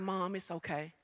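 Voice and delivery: imitating a daughter's soft, low reassurance; gentle soothing. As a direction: hush it down to comfort mom. Daughter soothing her upset mother.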